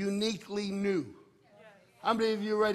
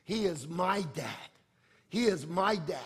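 "my" leaned on in "he is my dad"; stress on MY. Shown as a demonstration. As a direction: put the weight on "my". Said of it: "the emphasis is".

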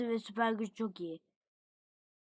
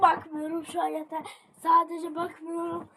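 anxious; 5 semitones higher than usual. Real, not acted. Looking away in panic.

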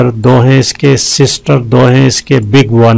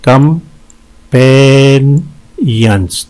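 "कंपेनियंस" very slow, with gaps between syllables; syllable breakdown; much slower than usual. Shown as a demonstration. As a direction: pause after each chunk of "कंपेनियंस". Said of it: "इसमें तीन syllables हैं". ("कंपेनियंस" एक-एक हिस्सा अलग करके, बहुत धीरे)

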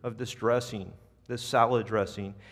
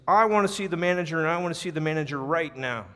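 higher, louder, fast demand; furious customer demanding the manager; mock scream; 4 semitones higher, 4 dB louder, faster than usual. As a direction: bark the demand like an irate customer. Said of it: "the man screams".

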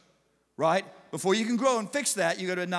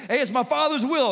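louder and higher, settling it; firm raised voice; 7 semitones higher, 7 dB louder than usual. Retold or imitated. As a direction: end the back-and-forth with authority. Jesus settles the argument.

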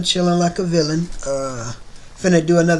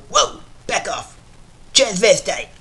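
Quagmire impression; 2 semitones higher than usual. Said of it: "my Quagmire voice impression".

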